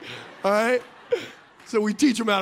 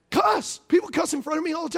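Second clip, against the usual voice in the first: high cheeky urge; 6 semitones higher than usual. Real, not acted. Urging her to cuss.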